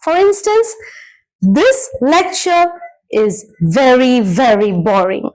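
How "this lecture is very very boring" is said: slow, with weight on each "very"; emphatic repetition. Shown as a demonstration. Teacher giving students an example of repetition, emphatic "very, very". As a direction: drag out "very, very" for emphasis. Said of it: "a repetition of the word very".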